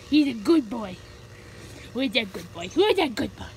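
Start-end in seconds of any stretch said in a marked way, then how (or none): 1.9-2.7 dog praise. Real, not acted. 2.7-3.5 higher, sing-song dog-talk voice; higher puppy-praise voice. Real, not acted.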